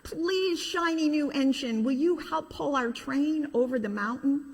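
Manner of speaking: put-on high childlike pleading voice; pleading toys. Toys begging the shiny engine, high pleading voice. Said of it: "the dolls and toys cried out together".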